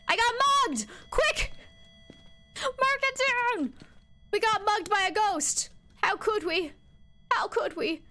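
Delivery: squealing fake distress over the stolen item; mock alarm. Real, not acted. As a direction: yell it like a robbery victim.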